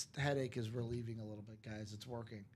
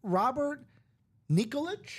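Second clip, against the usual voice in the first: loud, higher call-out of a name; 10 semitones higher, 7 dB louder than usual. Real, not acted. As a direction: announce the name to the room. Calling out a new viewer.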